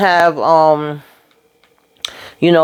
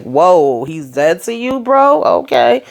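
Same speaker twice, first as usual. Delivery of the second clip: shocked disbelief; slower than usual. Real, not acted. Viewer reacting to Jannard disowning his friends, shocked and incredulous. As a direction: jump up in pitch, stunned.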